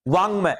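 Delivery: वांग said with a nasal ng; sound it out. Shown as a demonstration. Teacher showing students the nasal sound. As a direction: let वांग ring with the nasal. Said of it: "अब समझ लो क्या उच्चारण निकल रहा है".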